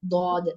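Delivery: ദ്വാദ് heavy and low in the mouth; teacher giving the correct sound; correct dad. Shown as a demonstration. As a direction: say ദ്വാദ് heavily, full mouth. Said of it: "this is the correct pronunciation".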